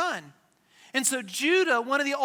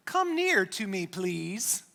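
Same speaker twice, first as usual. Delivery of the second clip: joking invitation; 3 semitones lower, slower than usual. Acted. Joseph calls his brothers closer, jokingly dramatic. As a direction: play it for a laugh. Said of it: "he probably didn't say it like that".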